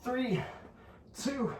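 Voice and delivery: each number high and falling; high-pitched countdown. Real, not acted. Trainer counting out the last painful seconds, high-pitched.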